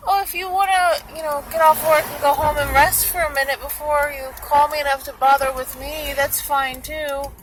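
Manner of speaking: imitated sweet, high-pitched offer; obliging and sweet, high and a bit loud; sweet girl. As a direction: play her as sweetly considerate, voice lifted. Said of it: "the girl was so sweet".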